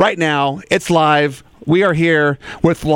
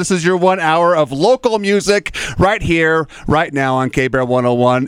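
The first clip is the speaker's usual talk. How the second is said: radio announcer; 2 semitones higher than usual. Acted. Radio host opening the show.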